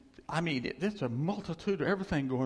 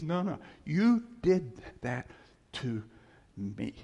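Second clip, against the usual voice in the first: mad, insistent. Acted. God answering an excuse, firm and mad. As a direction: cut off the excuse, then space out each word. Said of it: "that's what made him mad".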